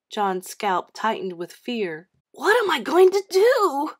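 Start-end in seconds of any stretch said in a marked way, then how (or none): 2.3-3.9 high, loud wail of dismay; miserable. A narrator's reading. John asking himself as chocolate spreads, miserable. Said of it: "he asked himself miserably".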